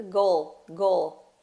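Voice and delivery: "goal" ending with tongue up behind the teeth; final L pronounced. Shown as a demonstration. Teacher showing tongue position, final L pronounced. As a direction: finish "goal" on a dark, clear L. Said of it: "a gente coloca a língua lá atrás do dente".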